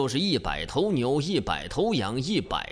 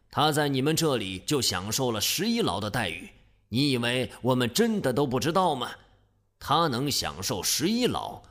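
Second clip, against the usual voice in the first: cold sneer. Acted. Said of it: "伯嚭冷笑一声".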